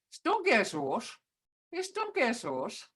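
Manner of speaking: Stungesos, Istungesos with a careful tone; tone demo. Shown as a demonstration. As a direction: say Istungesos with a clear tone. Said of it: "Hear that tone?".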